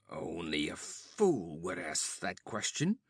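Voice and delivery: low, breathless panting reply. Acted. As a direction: gasp it out, exhausted. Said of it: "panted Conan".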